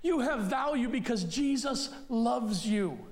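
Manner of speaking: slow, deliberate affirmation; slow assurance. Real, not acted. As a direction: let each word land slowly.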